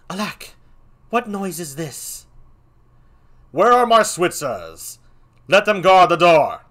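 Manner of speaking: king startled by the noise, calling for guards; alarmed king. Acted. King calling his guards in alarm, loud.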